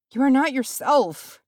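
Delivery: high-pitched, wary protest; alarmed. A narrator's reading. Hobbit confronting the changed warrior, alarmed. Hobbit backs away from crazed friend.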